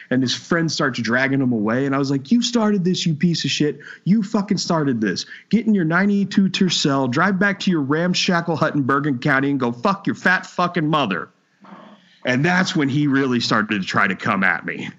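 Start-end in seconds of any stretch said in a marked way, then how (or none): 2.3-11.3 high-pitched retold tirade; mild mock yell, high. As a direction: fire the insults back up high. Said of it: "I screamed at a guy".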